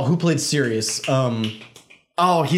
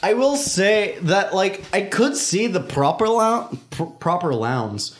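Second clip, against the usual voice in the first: put-on Scottish accent; slower than usual. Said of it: "I feel like I should be talking in a Scottish accent now".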